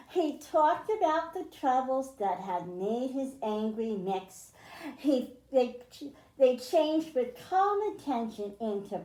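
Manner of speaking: lilting read-aloud, rhymes and all; storybook reading. A narrator's reading. Teacher reading a rhyming picture book to children, lilting read-aloud. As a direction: read it to a class of kids, rhyming.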